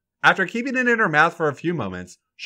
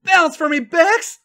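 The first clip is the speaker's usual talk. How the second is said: wicked smile; 6 dB louder, slower than usual. A narrator's reading. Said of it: "says with a wicked smile".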